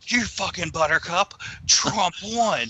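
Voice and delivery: a hammed-up, escalating troll voice; mocking troll. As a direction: ham up the angry troll, climbing to a shout. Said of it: "And then he goes".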